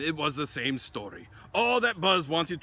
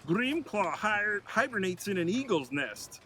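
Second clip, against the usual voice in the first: Buzz's hushed secret; 7 semitones higher than usual. Acted. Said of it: "He lowered his voice".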